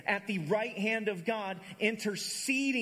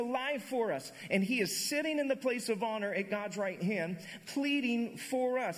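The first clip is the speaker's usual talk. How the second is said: slow, solemn reading; slow solemn Bible reading; scripture reading; 2 semitones higher, slower than usual. Acted. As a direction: read the verses with weight.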